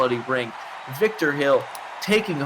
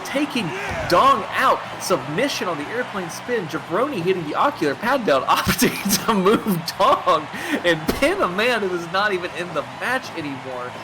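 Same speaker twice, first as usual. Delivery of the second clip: high-pitched, animated wrestling commentary; pitched-up ringside call, breaking into a laugh; excited play-by-play; 7 semitones higher than usual. Real, not acted. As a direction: call the big move with rising excitement. Play-by-play of a sudden big move.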